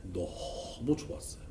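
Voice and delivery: slow breathy hush; hushed delight. Real, not acted. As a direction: savor it softly, almost whispered. Savoring the compliment. (느리게 속삭이듯 흐뭇하게)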